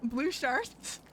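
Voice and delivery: laughing through the question; real laughter breaking into the words; incredulous laughing. Real, not acted. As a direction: crack up while repeating it. Cracks up at teammate's phrase.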